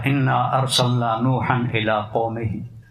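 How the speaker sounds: slow chanted Arabic recitation; Quranic recitation. Retold or imitated. Imam leading prayer recites slowly to the congregation.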